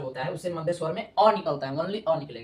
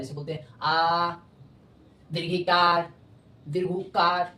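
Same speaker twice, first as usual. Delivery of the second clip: आ, दीर्घिकार, दीर्घुकार खींचकर और ज़ोर से; स्वर को लंबा और भारी खींचो; long vowel demo; slower than usual. Shown as a demonstration. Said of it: "थोड़ा जोर से बोल दिए बढ़ा के". (दीर्घ स्वर खींचकर ज़ोर से)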